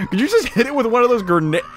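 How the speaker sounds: high, stretched oh my gosh; mock shock. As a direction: gasp in playful horror. Mock shock at grenade idea.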